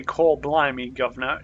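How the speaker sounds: lightly put-on Cockney-style London accent; a casual stab at a London accent; mock London accent. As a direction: stock fictional-English London accent. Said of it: "where that accent is from".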